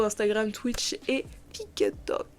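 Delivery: soft whispered list; whispering. Real, not acted. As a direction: whisper the names close. Listing social networks at video end.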